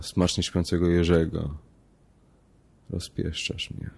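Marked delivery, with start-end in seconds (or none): 2.9-3.9 hushed, almost whispered thought; soft inner thought. A narrator's reading. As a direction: think it quietly to herself. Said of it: "pomyślała".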